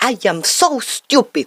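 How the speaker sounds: quick, matter-of-fact self-criticism; said with total conviction; convinced. Shown as a demonstration. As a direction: state it as a settled fact. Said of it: "we say it with such conviction".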